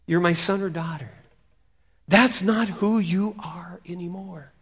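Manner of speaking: gently insistent inner plea; restrained pleading from within. Acted. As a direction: appeal earnestly, drawing it out. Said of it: "you hear the pleading voice".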